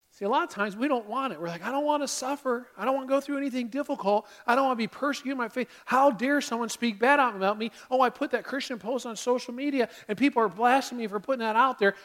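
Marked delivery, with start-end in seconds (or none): 1.6-11.9 mock scared complaining. Preacher voicing believers who don't want suffering, mock scared complaining. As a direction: lightly act out a reluctant believer's worries. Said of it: "we get all scared about it".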